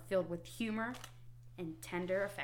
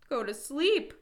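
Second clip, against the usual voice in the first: high, loud storybook shout; 7 semitones higher, 6 dB louder than usual. A narrator's reading. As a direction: Toad exclaiming in sudden realization. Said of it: "shouted Toad".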